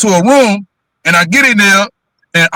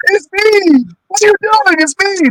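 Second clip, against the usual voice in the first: pleading protest; 10 semitones higher than usual. Retold or imitated. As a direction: stretch it out, begging her to stop. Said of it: "I was like".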